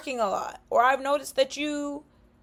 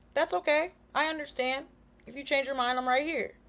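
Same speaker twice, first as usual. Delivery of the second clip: soft, quieter reassurance; reassuring; 6 dB quieter than usual. Shown as a demonstration. Reassuring a friend who doesn't want to talk, softly. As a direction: tell them gently you're here.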